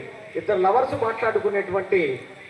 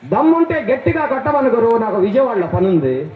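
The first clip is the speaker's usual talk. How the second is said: louder puppet bravado; mock-brave, raised voice; loud cheeky dare; 2 semitones higher, 4 dB louder than usual. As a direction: throw down the challenge loudly. Puppet dares the man to hit.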